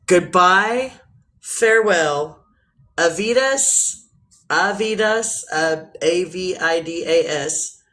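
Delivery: slow, drawn-out farewell in a show voice; a lightly put-on radio sign-off, slow. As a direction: stretch each goodbye word slowly. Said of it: "What about my voice".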